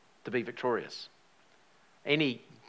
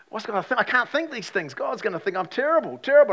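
high-pitched fretting, rising to a loud peak; reenacted panic; 8 semitones higher, 6 dB louder than usual. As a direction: work yourself up as you retell the dread. Reliving panic over intrusive thoughts.

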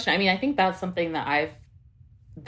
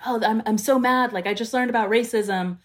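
higher, louder voice imitating the freshly outraged; mock fired-up outrage; 6 semitones higher, 4 dB louder than usual. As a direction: put on an over-eager newly angry activist. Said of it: "people get really fired up".

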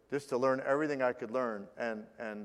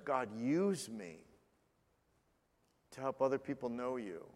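earnest prayer. Acted. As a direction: pray it sincerely, as if alone with God. Voices a model prayer.

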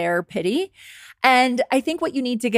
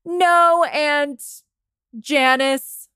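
modelled reply; 6 semitones higher, much slower than usual. Acted.

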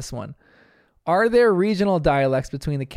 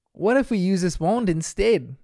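imitating Mackenzie's regional accent; 4 semitones higher than usual. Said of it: "makes it sound like she's from a different area of Australia".

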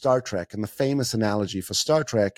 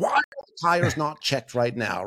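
mock blaming. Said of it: "They start beating everyone else up".

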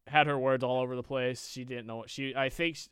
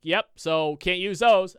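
smug; 5 semitones higher, 10 dB louder, slower than usual. Retold or imitated. Cashier crumpling expired coupons.

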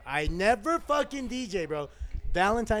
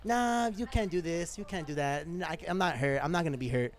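mock girl's denial; 6 dB quieter than usual. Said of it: "Most girls say".

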